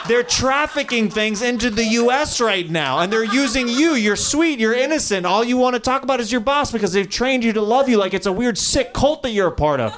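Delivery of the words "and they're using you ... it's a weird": usual speaking voice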